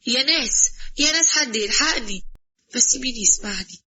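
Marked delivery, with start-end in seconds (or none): 0.1-2.2 raised, pleading call for rescue; loud cry for help. Acted. Trapped woman calls out for help, raised and desperate. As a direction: shout to anyone who might hear. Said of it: "بعلو حسي أقول".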